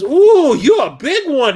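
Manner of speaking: high, loud, impressed woman's coo; hammed-up Victorian flirt; mock swooning streetwalker. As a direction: gush over how big he is.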